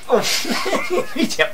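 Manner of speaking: thai slapstick. Acted. Yelps, then insists no pain.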